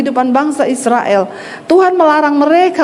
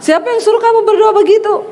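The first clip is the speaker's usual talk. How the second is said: angry husband; 8 semitones higher, faster than usual. Retold or imitated. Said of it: "Suaminya marah".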